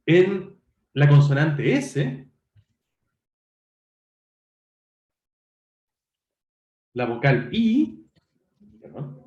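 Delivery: drawn out, each sound set apart; slow segmenting. Shown as a demonstration. Teacher to online class, breaking a word into sounds, slowly. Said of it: "teacher splits sin into phonemes".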